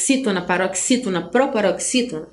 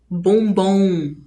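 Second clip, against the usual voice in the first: "bombom" with the second "bom" a little stronger; stress on last BOM; 3 semitones lower than usual. Shown as a demonstration. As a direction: slightly lift the final syllable of "bombom". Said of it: "mas a última é pronunciada, né, um pouquinho mais, mais alta".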